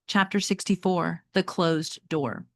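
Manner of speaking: reading a novel aloud to the class; teacher reading a chapter book to students; story narration. Acted. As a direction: tell it like a read-aloud storyteller.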